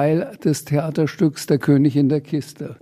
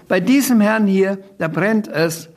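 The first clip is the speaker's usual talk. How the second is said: higher and louder, pointing out the manager; loud gleeful call; 6 semitones higher, 3 dB louder than usual. Acted. Sams tells everyone the manager is burning, loud cry. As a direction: call it out with mischief. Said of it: "schrie der Sams laut".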